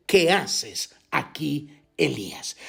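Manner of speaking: slow, soft, hushed question; gentle quiet voice. A narrator's reading. God's gentle voice to Elijah, slow and hushed. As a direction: ask it like a still small whisper of wind. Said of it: "un silbo apacible y delicado".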